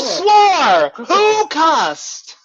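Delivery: high, loud shocked demand; shocked scolding. Acted. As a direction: call out who swore. Counselor scolding kids over swearing.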